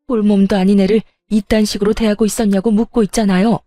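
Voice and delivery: stern furious mother. Acted. Mother confronting the mother-in-law over her daughter, stern and angry. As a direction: demand an answer coldly. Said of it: "시모를 쏘아보며 말했고".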